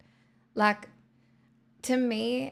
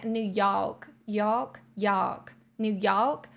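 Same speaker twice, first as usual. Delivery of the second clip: trying out a New York accent on "York"; much slower than usual. Shown as a demonstration. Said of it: "it's so forward in the ma".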